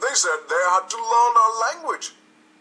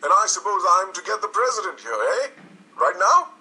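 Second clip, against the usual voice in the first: louder and higher, indignant sarcasm; angry outburst; 6 semitones higher, 5 dB louder than usual. A narrator's reading. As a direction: blow up at the absurd request. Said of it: "Cameron got red".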